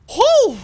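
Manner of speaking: high, loud whew; relieved whoop. Real, not acted. Relief after winning fight.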